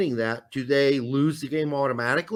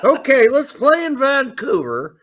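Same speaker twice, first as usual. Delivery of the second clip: excited; 10 semitones higher, 8 dB louder than usual. Pretend. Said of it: "I should do that in Mexican accent".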